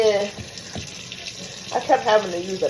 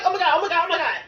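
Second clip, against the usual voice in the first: panicking; 6 semitones higher, much faster than usual. Retold or imitated. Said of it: "I'm panicking".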